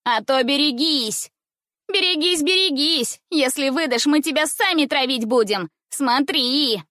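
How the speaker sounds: high sing-song threat; threatening girl. Acted. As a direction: chant beware at her. Roche voiced threat.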